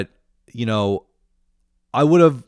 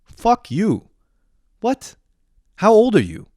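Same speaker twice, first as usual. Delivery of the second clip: high, loud incredulous outrage; furious rant; 9 semitones higher, 5 dB louder than usual. Retold or imitated. Ranting at a friend who won't commit, furious. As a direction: pitch it way up in exasperated disbelief. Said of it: "I was so fucking furious".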